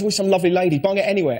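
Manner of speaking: normal talking voice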